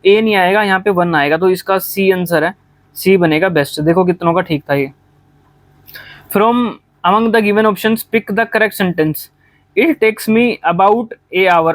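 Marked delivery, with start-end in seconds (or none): 6.4-11.8 slow, deliberate reading of the question; slow dictation read. Shown as a demonstration. Teacher reads the quiz question to students, slow and deliberate. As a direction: spell each word out for the class.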